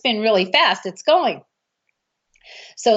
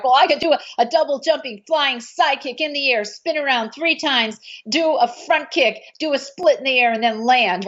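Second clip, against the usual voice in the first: mock boast, pitched higher, piling up moves; boastful one-upping; 4 semitones higher than usual. Richard topping the other man's brag, boastful and higher. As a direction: outdo the other guy with a bigger brag. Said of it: "finally Richard's like".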